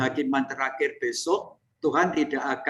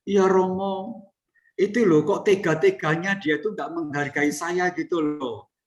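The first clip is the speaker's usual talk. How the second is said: higher, offended whine of a vain sister; pitched-up complaint, mildly hammed; mock proud nun; 4 semitones higher than usual. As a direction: play the wounded pride of a nun losing face. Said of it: "Nah, itu sombong".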